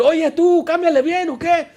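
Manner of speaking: high, loud angry bark at the sound man; angry pastor yelling. Retold or imitated. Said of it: "Y le empiezan a gritar". (pastor enojado gritándole al del sonido, voz mucho más aguda)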